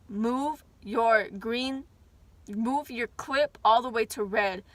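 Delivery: slow, deliberate command; stern order. Retold or imitated. Teacher sending a kid to red, slow and stern. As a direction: drag out the punishment order. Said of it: "and she told me".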